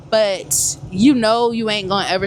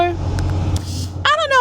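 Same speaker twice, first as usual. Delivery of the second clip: drawn-out aside; much slower than usual. Real, not acted. Stretched aside.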